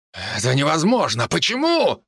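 horrified. Acted. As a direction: cry out in disbelief. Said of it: "воскликнул он".

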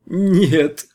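высокий, громкий визг «Нет»; взвизгнуть. A narrator's reading. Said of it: "завизжала смуглянка". (пленница визжит Ивану «Нет»)

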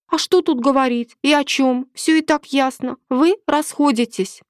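a hint of a cool, certain woman; lightly voiced mistress. A narrator's reading. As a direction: brush his worries aside. Milena dismisses his doubts.

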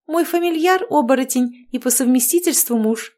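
bubbly overbearing mother-in-law chattering; cheerful witch. Acted. Marianna explaining. (ведьма щебечет слегка выше обычного)

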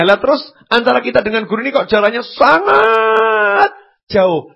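real tears breaking into the sermon; lamenting through tears; crying. Real, not acted. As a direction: voice cracking into a sob. Preacher laments the gap with teachers.

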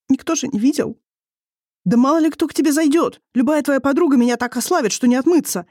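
quarrel. A narrator's reading. Marital quarrel, wife voiced higher.

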